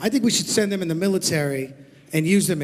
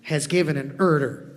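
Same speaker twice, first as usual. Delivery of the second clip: rapper slang voice; 4 semitones higher than usual. Pretend. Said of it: "in his hip-hop talk".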